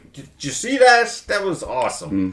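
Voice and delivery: high, loud thrilled cry to himself; pumped-up self-praise; excited boast. Retold or imitated. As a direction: crow over the great shot. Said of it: "I'd be like".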